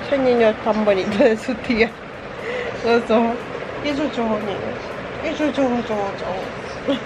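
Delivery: gushing, cutesy auntie; doting babble to a little one. Real, not acted. Cooing over the baby's eyes.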